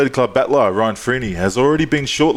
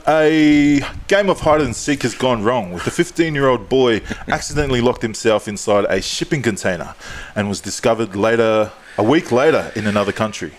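news read. Acted. Mock news bulletin read.

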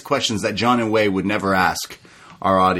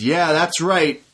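imitating DDP; 4 semitones higher than usual. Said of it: "He says".

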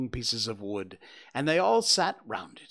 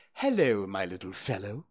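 kindly; 4 semitones lower than usual. Acted. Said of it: "in a kindly way".

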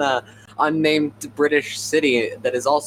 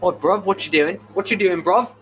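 high, cocky mock London street accent; London roadman accent; 8 semitones higher than usual. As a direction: play a tough London lad, hammed up. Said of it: "do your best impression of a British person".

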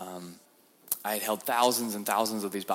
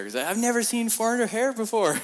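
marveling; 13 semitones higher, 6 dB louder than usual. Retold or imitated. Voicing prisoners' wonder.

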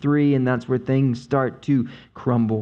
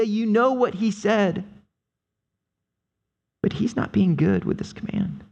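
higher, coaxing serpent voice; tempting serpent; 4 semitones higher than usual. Retold or imitated. Serpent persuading the woman that God holds her back, coaxing. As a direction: sell the lie smoothly.

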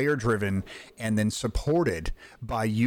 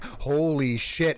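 slow, drawn-out awe; retold amazement; much slower than usual. Player retelling his first tour of the map, awed. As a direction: stretch it out in mild wonder.

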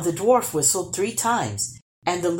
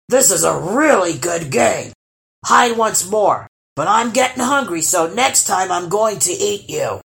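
troll voice; 6 dB louder than usual. Acted. Troll threatens hidden boy.

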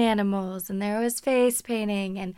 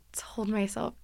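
whispered; 7 dB quieter than usual. Real, not acted. Whispered line in story.

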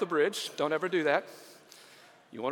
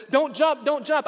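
shouted high plea to stop; high, loud pleading shout; urgent plea; 8 semitones higher, 4 dB louder than usual. Acted. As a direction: call out desperately to stop him. Rescuer shouting at jumper.

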